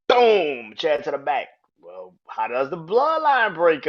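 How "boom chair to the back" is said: excited play-by-play. Retold or imitated. Reenacting a chair shot.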